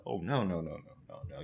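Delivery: low, fading string of refusals; muted refusal. Acted. Refusing to go to the haunted house, hushed fading refusal. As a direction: drop away almost to a whisper.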